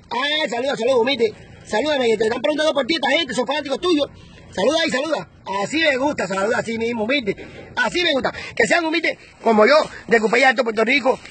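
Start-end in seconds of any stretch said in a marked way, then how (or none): 0.1-8.3 coaxing a pet rooster. Real, not acted. Coaxing his rooster to greet.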